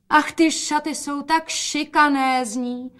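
slow, high delighted exclamation; exclaiming. A narrator's reading. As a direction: gush over the dress. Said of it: "zvolala matka". (nadšené zvolání)

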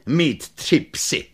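lightly voiced girl, a touch of envy; envious little girl. Little girl envying Pan Tau his three dogs, mild envy. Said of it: "Závistivě řekla".

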